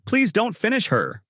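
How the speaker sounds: high-pitched, understated plea; pleading. A narrator's reading. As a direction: beg lightly for someone's life. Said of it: "Rwanda pleads".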